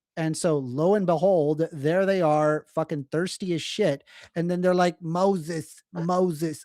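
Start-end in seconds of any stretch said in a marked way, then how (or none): 5.1-6.7 put-on Yiddish-inflected accent. Retelling the Jews in the desert calling for Moses, in a put-on Jewish accent. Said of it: "I'm sorry for the Jewish accent".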